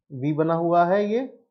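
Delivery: "I" held alone before a long pause; word-by-word dictation. Shown as a demonstration. Teacher dictating to the class, word by word. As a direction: say "I" slowly, as if dictating.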